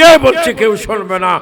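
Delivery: loud, emphatic, shouted delivery.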